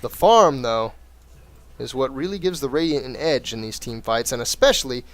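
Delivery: lively esports caster narrating the match; play-by-play commentary. Acted. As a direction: call the game like a caster. Casting a replay like commentator.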